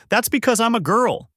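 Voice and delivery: high-pitched, exasperated outburst; mild narrated yell. A narrator's reading. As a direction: pitch it way up without really shouting. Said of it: "Bulma yells out saying".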